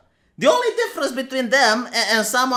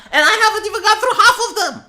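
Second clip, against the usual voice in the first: laughing exasperation; 11 semitones higher, 6 dB louder, faster than usual. Real, not acted.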